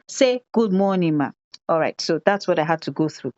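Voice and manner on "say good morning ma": parroting the prompt word for word; child parroting. Retold or imitated. To the teacher, the child repeats the instruction mechanically. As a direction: copy the whole line back, including say. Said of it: "And the child says".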